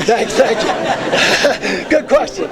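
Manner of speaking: laughing through a quick thank you; real laugh, pitch lifted high, thanks slowly drawn out. Real, not acted. Laughs at audience question.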